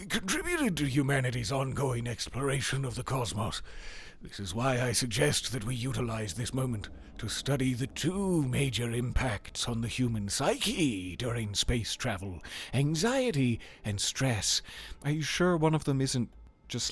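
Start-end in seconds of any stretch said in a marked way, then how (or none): 0.1-3.6 a hint of a breathless scientist; lightly voiced psychologist; Jeffrey Hammer voice. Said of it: "Let me get my Jeffrey Hammer". 4.2-14.6 Jeffrey Hammer voice. Acted. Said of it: "Let me get my Jeffrey Hammer".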